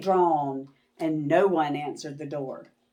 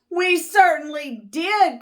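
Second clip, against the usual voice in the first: put-on high, loud joyful kids; cried; 10 semitones higher, 5 dB louder than usual. Kids welcoming their teacher, high and loud. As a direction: cheer it back. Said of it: "cried all the kids".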